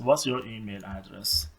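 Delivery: slow, careful question; slow model question. Shown as a demonstration. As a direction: read it slowly for the class. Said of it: "پس". (پرسش آهسته و شمرده)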